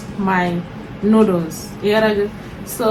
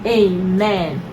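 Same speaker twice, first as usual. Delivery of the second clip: solemn family blessing. Real, not acted. Prays over the meal.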